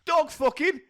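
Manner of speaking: very high, laughing falsetto; high squeaky voice. Acted. Joking outburst, high falsetto.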